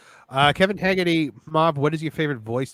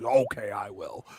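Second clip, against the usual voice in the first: imitating Dave; 6 semitones lower, 5 dB quieter, slower than usual. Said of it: "Dave goes".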